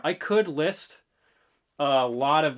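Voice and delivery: bright, upbeat, slow read; cheery pitch-up read, rising end; too bright. Shown as a demonstration. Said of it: "I feel like that's too bright".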